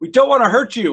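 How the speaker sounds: play-acted shrill, very high yell. Describing a scene, the speaker acts out a man shouting at the woman: retelling a shout. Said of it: "one of them shouts shouts at the woman like".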